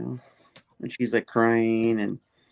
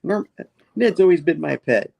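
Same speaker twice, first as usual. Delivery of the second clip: louder, higher comic villain voice; gloating villain; 7 semitones higher, 5 dB louder than usual. Retold or imitated. Hobgoblin boasting about controlling Ned, mock gloating. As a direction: crow it like a hammed-up supervillain.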